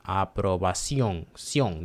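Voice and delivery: aprobación with weight on the final "CIÓN"; teacher's demo of aprobación, ending accented; stressed ON. Shown as a demonstration. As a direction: land on the last syllable of aprobación, then isolate "Ción". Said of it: "That's on".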